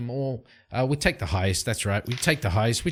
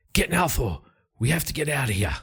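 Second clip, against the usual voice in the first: higher, urgent call to flee; urgent warning; 4 semitones higher, faster than usual. Acted. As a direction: hurry them out before it collapses. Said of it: "Beric says".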